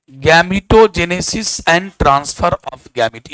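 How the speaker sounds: very slow, stretched-out terms; slow dictation. Real, not acted. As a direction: dictate word by word for students writing. Teacher dictating terms for notes. (बहुत धीरे, रुक-रुककर लिखवाना)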